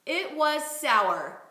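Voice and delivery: "It was sour" said very slowly and clearly; slow model phrase. Shown as a demonstration. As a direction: lay it out slowly for the student to copy. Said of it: "let's say".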